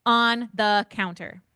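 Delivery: firm slow telling-off at the sink; stern parent. Retold or imitated. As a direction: lay down the rule to the kids. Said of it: "I'm like".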